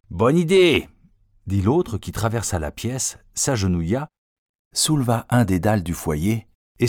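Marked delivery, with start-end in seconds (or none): 0.1-0.9 eager agreement. A narrator's reading. Accomplice agrees to bury loot.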